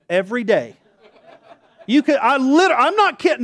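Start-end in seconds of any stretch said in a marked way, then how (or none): 1.9-3.4 laughing, loud and high; pitched up, laughing through it; laughing insistence. Real, not acted. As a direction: laugh while you swear it's true. Laughing insisting on true story.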